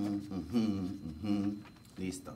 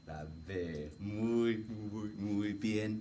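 whispering; 4 semitones lower, 4 dB quieter, much slower than usual. Real, not acted.

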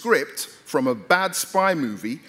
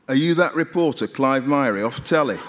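put-on thick Mancunian accent. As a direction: put on a broad Mancunian accent for a stranger in a lift. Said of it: "in a thick Mancunian accent".

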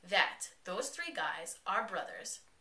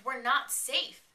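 raised, slow and emphatic; mock indignant yell; retold yelling; 6 semitones higher, 6 dB louder, much slower than usual. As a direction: yell it back, higher and drawn out. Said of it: "as she's yelling at him".

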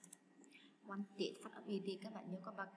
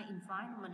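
"environment" with VI stressed; stress on second syllable; 5 dB louder than usual. Shown as a demonstration. Teacher going through answers, second syllable of "environment" stressed. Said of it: "là nhấn âm hai".

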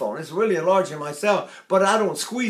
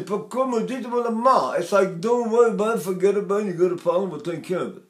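Neapolitan dialect; 5 semitones higher than usual. Shown as a demonstration. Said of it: "If I say".

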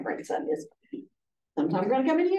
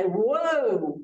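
slow, easy pleasant tone; calm curiosity, not anger; a gentle, unhurried whoa; much slower than usual. Shown as a demonstration. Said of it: "I can have a pleasant voice".

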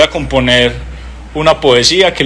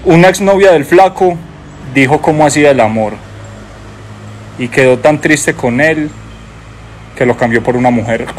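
poem recital; 2 semitones lower than usual. Acted. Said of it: "Y dice".

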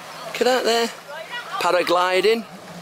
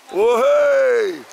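drawn-out, higher whoop; excited cheer; 4 semitones higher, 4 dB louder than usual. Real, not acted. Vlogger cheering at the view in paradise, excited whoop. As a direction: let out a long, high cheer.

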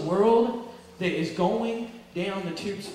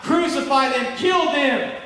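raised, forceful retold crowd yell; mock yelling; 4 semitones higher, 4 dB louder than usual. Preacher imitates people yelling at the sufferer, raised voice. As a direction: half-shout it like people in a mob. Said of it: "people are yelling out".

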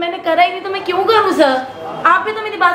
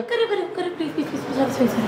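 frightened pleading; 9 dB quieter, faster than usual. Acted. Employee begs boss to stop.

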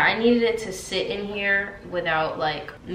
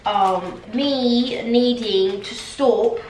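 put-on British accent; 3 semitones higher than usual. Answering commenters about the accent, in a British accent. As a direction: talk in a playful British accent. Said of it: "using this accent".

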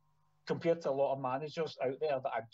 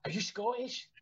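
lightly voiced girl, higher, rising question; a hint of an eager young fan asking; retold fan; 8 semitones higher than usual. Musician retelling a fan girl in Paris, higher eager question. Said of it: "And she went".

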